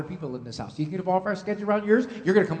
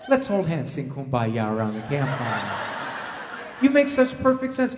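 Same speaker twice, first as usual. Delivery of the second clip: mock repentant child. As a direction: ham up the enlightened child. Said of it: "the child is going to go".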